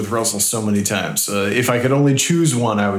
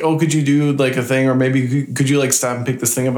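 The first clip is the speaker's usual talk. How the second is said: imitating Anna; 3 semitones higher than usual. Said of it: "Anytime Anna asks me".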